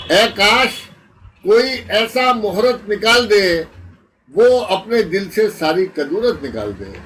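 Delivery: declaimed verse with pauses between phrases; ghazal recitation. Acted. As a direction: present each phrase to the mushaira audience.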